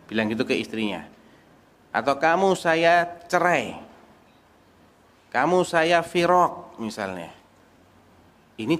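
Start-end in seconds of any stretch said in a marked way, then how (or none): 2.2-6.8 firm divorce declaration. Retold or imitated. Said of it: "kata-kata yang tegas dan gamblang".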